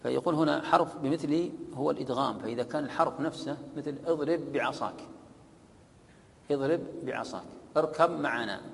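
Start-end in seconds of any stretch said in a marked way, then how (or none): 4.1-7.4 "اضرب بعصاك" with the two ba sounds merged into one doubled ba; "اضرب بعصاك" with a geminated ba and no break; full assimilation. Shown as a demonstration. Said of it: "إدغام تام". 7.8-8.6 "اركب معنا" with the ba merged fully into the mim; "اركب معنا" said as a doubled mim; full assimilation. Shown as a demonstration. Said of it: "إدغام تام".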